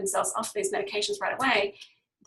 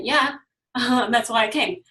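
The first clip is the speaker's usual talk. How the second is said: laughing patient; 2 semitones higher, 7 dB louder than usual. Retold or imitated. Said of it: "And you say".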